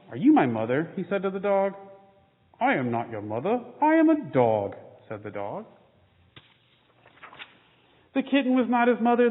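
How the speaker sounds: lively storybook reading with small character voices; reading to children. A narrator's reading. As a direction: read the picture book to the kids with gentle expression. Reads children's picture book aloud.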